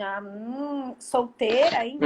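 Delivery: put-on pitying doubt; mock nosy disapproval; mimicked judgmental onlooker. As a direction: hum doubtfully, then pry.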